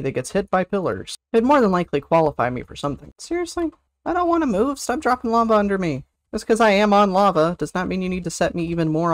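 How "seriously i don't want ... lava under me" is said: high whine. Real, not acted. Streamer whining at the boss about lava.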